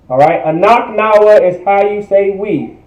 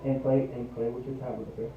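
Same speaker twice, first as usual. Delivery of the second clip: quiet aside; 7 semitones lower, 21 dB quieter, faster than usual. Real, not acted. Teacher quietly tells child aside.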